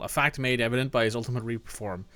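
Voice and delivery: rattling off game text; quick read-aloud; fast reading. Acted.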